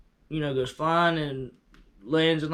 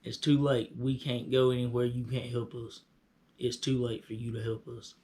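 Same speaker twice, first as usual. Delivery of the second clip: lifeless; 3 semitones lower, 6 dB quieter than usual. Shown as a demonstration. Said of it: "That's how they said it".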